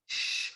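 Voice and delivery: a soft hissed sh; just the sh, soft and breathy; sh sound. Shown as a demonstration. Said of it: "we're not blocking that I sound".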